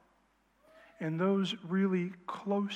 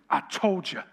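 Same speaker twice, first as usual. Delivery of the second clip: a knowing, self-satisfied I told you; smug told you; 4 dB louder than usual. Retold or imitated. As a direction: say it like you were right all along. Boyfriend vindicated after the reveal.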